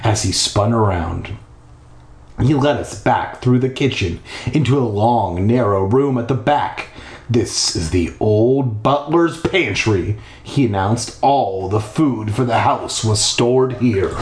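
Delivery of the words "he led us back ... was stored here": measured storytelling read; story narration. A narrator's reading. Narrator leading listeners through a creepy house, storytelling voice. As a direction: read it out with deliberate pacing.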